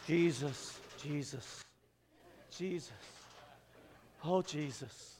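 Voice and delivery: soft, low murmured prayer under the breath; low-key murmur. Retold or imitated. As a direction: mutter it low and worried. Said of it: "Ashley starts out very low-key".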